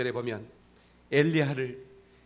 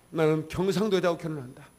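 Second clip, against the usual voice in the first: louder declaration of "경상도", a vow said with full resolve; firm resolve; 2 semitones higher, 4 dB louder than usual. Retold or imitated. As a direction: proclaim "나는 경상도 여자하고 결혼한다" firmly and louder. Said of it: "결심했어요".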